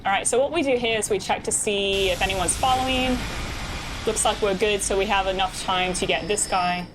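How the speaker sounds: put-on British accent, conversational; bad British accent. Streamer explaining the game to chat, bad British accent. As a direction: talk chat through it in mock British. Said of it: "this is my bad British accent".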